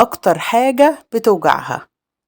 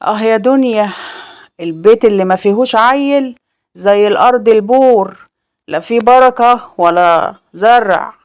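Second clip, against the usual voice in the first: sighing lament. Acted. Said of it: "وقالت وهي بتتنهد".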